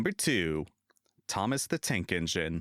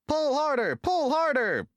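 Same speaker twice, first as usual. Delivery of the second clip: high, loud straining puffs; little engine puffing at the big one, high and loud; 5 dB louder than usual. A narrator's reading. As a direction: push hard behind the train. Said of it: "puffed Thomas to Gordon".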